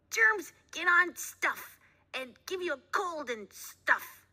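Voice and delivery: put-on high, slow dopey little boy; slow kid voice. A narrator's reading. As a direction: drawl it out like a sleepy kid. Gerald's voice, slow.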